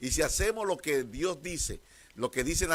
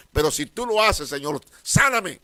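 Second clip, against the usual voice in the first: pleading cry; 9 dB louder than usual. Retold or imitated. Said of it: "en donde dicen".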